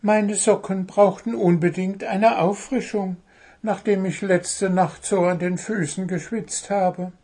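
high-voiced bird justifying itself; innocent, high-pitched self-defence; defensive little bird. A narrator's reading. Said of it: "verteidigte sich Zwitschi".

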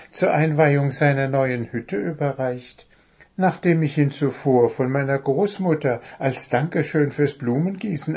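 lightly voiced goblin; light goblin voice, storytelling. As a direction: tell it chattily. Goblin tells chocolate box tale.

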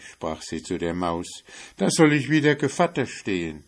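a coaxing cat in a hurry; eager cat. Acted. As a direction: rush the excuse out eagerly. Cat begs to leave.

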